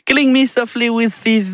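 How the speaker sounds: rushed French-accented English title; missed English accent. Shown as a demonstration. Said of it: "mon accent anglais".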